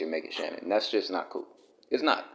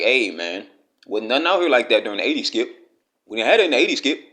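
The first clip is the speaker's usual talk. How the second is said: a light, quick imitation of Shannon bragging to Skip about the eighties, louder toward the end; lightly voiced old-timer bragging to his co-host, rising and louder; Shannon Sharpe impression; 4 dB louder than usual. Imitating Shannon telling Skip they had none of that in the eighties, a hint of boastful. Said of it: "That's how he would say it".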